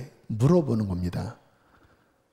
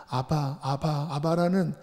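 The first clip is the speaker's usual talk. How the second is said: put-on like a child; 3 semitones higher, 3 dB quieter than usual. Shown as a demonstration. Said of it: "마치 어린아이처럼".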